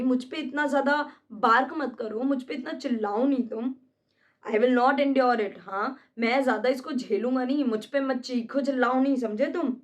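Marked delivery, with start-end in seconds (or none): 4.4-5.6 lines from a play said slowly and louder; slow, firm stage line; slow, louder recitation. Acted. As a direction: declaim it with mild defiance.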